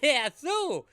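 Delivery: put-on high, loud valley girl squeal; white girl voice. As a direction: gush like a tipsy party girl. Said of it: "Every white girl with a white claw in her hand is like".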